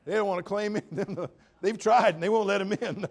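loud, ringing preacher voice; full-force preaching. Acted. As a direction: preach it out to the congregation.

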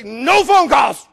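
slow, loud barked command; angry order. Retold or imitated. Pastor storming past the secretary, slow loud shout. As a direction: spit each word out.

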